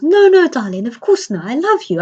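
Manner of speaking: high, emphatic retold protest to a wife; mock-pleading denial, jumping up in pitch; hasty reassurance. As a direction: play a husband hurriedly denying it. Dad hastily reassures suspicious mum.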